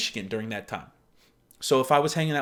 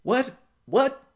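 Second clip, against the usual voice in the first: high, rising double what; disbelieving what, pitched way up; stunned what to a silly question; baffled; 8 semitones higher than usual. Retold or imitated. Quoting her baffled reply.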